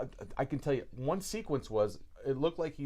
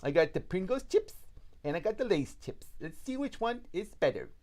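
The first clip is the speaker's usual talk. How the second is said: high, odd mimicked voice; slightly wrong copied voice; 6 semitones higher than usual. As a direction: copy the guy's strange voice. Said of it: "with this guy's voice was pretty much like this".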